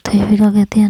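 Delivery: ordinary delivery, nothing marked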